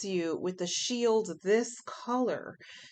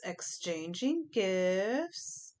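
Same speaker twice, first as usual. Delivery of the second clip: stretched slowly, softer; slow drawn-out repeat; 4 dB quieter, much slower than usual. Shown as a demonstration. Reader savouring the card name, slow and drawn out. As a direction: draw the words out slowly, savouring them.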